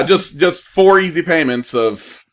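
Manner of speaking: slow infomercial pitch; hard sell ad. Pretend. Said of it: "We're turning into an in-, infomercial".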